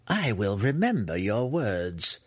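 slow, wry matriarch; wryly knowing, unhurried. Acted. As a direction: draw the words out with dry irony. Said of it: "Malice said wryly".

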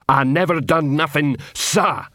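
half-hearted yell of innocence; mild troll yell. Acted. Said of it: "yelled Detritus".

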